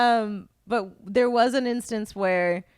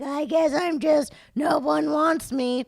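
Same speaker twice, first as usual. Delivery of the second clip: sad puppet voice; 5 semitones higher, slower than usual. Retold or imitated. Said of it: "putting the puppet on and doing a voice".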